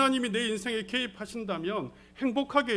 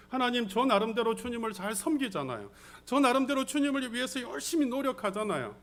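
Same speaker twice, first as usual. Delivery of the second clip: mildly acted plea, slightly raised; crying out to God; 3 semitones higher than usual. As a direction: protest your devotion to God. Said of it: "하나님 앞에 울부짖을 때가". (하나님께 호소하듯)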